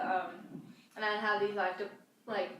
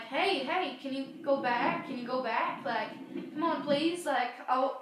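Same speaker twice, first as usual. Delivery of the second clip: lightly pleading, slightly raised voice; coaxing plea; 3 semitones higher than usual. Retold or imitated. Older sister begging her silent toddler brother, gently pleading. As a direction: coax a small child to go back.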